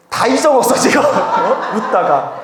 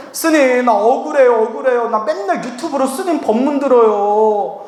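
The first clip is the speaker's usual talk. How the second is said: higher-pitched, mock-wronged protest; aggrieved pleading; 4 semitones higher than usual. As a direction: plead innocence like a wronged fan. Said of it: "그분이 막 억울하다고 하면서". (억울하다고 하소연하는 말투)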